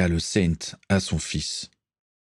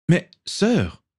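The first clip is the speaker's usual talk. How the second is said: stammering; 11 semitones higher than usual. A narrator's reading. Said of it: "balbutia le comte".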